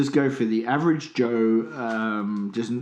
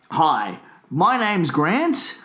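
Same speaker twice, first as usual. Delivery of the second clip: slow announcer read; 3 semitones higher, much slower than usual. Pretend. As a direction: read it like a radio ad. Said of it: "here we go".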